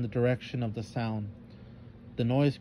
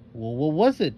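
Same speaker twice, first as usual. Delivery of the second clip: calling out louder, breathless from the chase; eager cry; 5 dB louder than usual. Acted. Jania catching up after the chase, louder eager call. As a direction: demand an answer after running. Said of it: "Jania cried".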